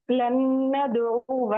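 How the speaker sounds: लन न्दउव ending on a short "wa"; silent alif after waw. Shown as a demonstration. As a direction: recite लन न्दउव slowly, no long final vowel. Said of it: "अलिफ है उसको हम नहीं पढ़ेंगे".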